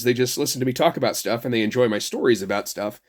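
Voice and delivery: normal talking voice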